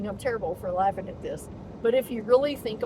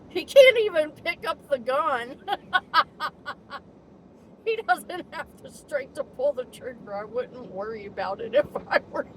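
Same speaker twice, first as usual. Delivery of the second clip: amused quote; 4 semitones higher than usual. Retold or imitated. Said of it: "with a laughing emoji saying".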